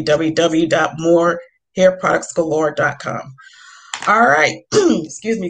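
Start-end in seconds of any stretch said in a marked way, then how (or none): 4.1-5.5 scratchy voice. Real, not acted. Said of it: "gotta excuse my voice today, kind of scratchy".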